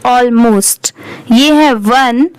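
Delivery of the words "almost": almost said slowly as "AWL-most"; slow model reading of "almost", starting like "all"; correct pronunciation, slowly. Shown as a demonstration. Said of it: "इसकी correct pronunciation है".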